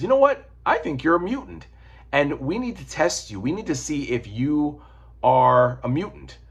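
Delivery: lightly acted announcement, starting high; Xavier addressing Falcon. Xavier telling Falcon his theory, lightly acted and emphatic. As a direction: open high, then settle into deliberate emphasis. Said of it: "he outs Falcon and says".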